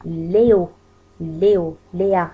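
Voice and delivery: "ليو" and "ليا" with a closed French é; inward é sound. Shown as a demonstration. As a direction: model the é in "ليو" held inward, not open. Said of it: "الاي للداخل".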